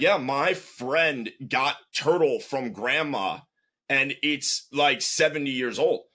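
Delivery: put-on slow, broken English in a light Russian accent; lightly imitated Russian accent, explaining; thick Russian accent. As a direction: retell the kid's story in his Russian accent. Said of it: "With, like, a thick Russian accent".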